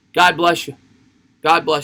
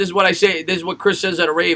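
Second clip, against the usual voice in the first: plain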